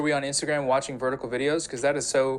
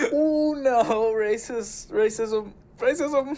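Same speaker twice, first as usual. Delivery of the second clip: mocking whine; 9 semitones higher, much slower than usual. Mocking S3's objection.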